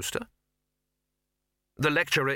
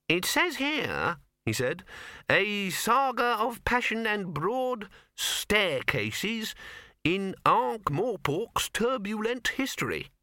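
reading aloud; 10 semitones higher, much slower than usual. Acted. Wizard reading poster aloud.

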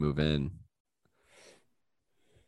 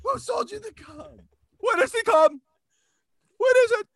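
very high hammed-up interrogation; strained falsetto, bursts of loud demands; frantic questioning; 5 dB louder than usual. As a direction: play a frantic old man in falsetto. Acted frantic questioning in skit.

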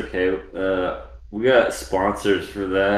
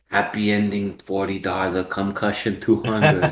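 bad Asian accent. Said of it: "my Asian accent was not good".

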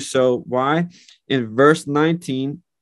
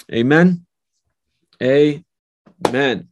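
emphatic amen; 4 dB louder, much slower than usual. Real, not acted. Preacher's call for response.

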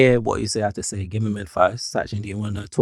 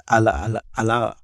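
put-on Nigerian accent. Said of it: "allow my Nigerian accent".

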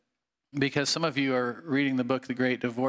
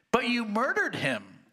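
accusing ghost; 9 semitones higher than usual. Acted.

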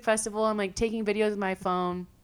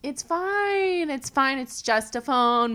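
high, drawn-out mock reassurance; airy it's-all-fine, as if trashed; drunken acceptance; 5 semitones higher, slower than usual. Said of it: "like, really trashed".

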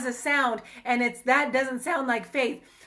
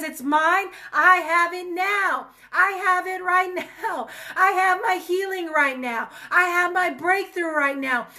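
voice of faith; 2 semitones higher than usual. Shown as a demonstration. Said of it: "because faith says".

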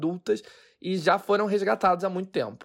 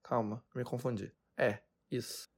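quiet aside; 6 semitones lower, 11 dB quieter than usual. Real, not acted. Self-correction aside.

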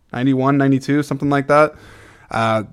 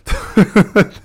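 laughing; 10 semitones higher, 5 dB louder than usual. Real, not acted. Laughs at own impression.

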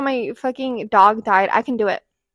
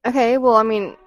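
put-on louder, accusing girlfriend jealousy; pretend-jealous rant at a guy; mock jealous; 5 dB louder than usual. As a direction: play the jealous girlfriend, half-joking. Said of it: "fun being like".

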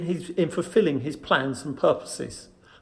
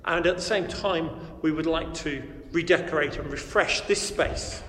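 hallway echo; 4 dB quieter than usual. Real, not acted. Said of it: "As you can hear from the echo of my voice".

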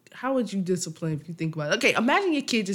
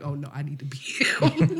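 laughing whisper; 3 semitones lower than usual. Retold or imitated. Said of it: "you would have been like".

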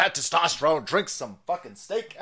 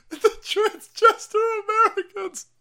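mock old president; 4 dB louder than usual. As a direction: drag it out in a silly squeaky put-on. Mocking the president's speech.

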